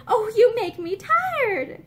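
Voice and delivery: slow, cross and tired of it; crossly. A narrator's reading. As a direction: drag it out with irritation. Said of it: "she said crossly".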